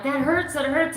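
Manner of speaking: imitating a hurt plea; retold pained plea. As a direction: plead against the pain. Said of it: "and I'm like".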